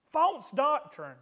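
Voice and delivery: slow, high, hammered False doctrine; preacher repeating False doctrine slowly for weight; stressed repeat. Shown as a demonstration. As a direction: lean hard on False for emphasis.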